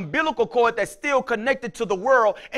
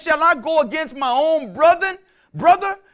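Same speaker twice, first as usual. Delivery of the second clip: pleading question; 5 semitones higher, 4 dB louder than usual. Acted. Voicing Israel questioning God.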